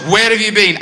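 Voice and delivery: mock furious girlfriend; girlfriend shouting. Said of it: "She goes".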